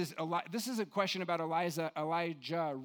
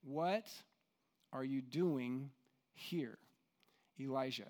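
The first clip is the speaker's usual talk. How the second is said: slow, soft, lower question with pauses; gentle whisper; 5 semitones lower, 6 dB quieter, slower than usual. Acted. God's voice asking Elijah after the gentle whisper, soft and slow. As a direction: ask it quietly, word by word. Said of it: "a voice said to him".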